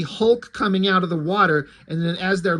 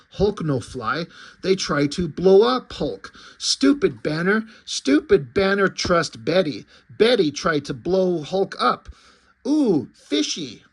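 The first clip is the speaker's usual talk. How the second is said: lightly voiced lumbering brute; simple broken speech with heavy emphasis; a hint of a dim monster thinking aloud; Hulk. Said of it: "Now it's the Hulk's thought".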